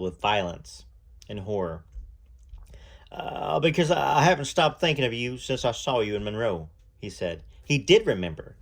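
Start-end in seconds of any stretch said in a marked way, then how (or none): 3.1-6.7 shy young singer. Acted. The singer tells Lucy he kept thinking of her, hesitant. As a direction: stammer it out like a nervous young singer.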